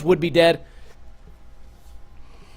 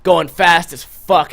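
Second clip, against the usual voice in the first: ordinary delivery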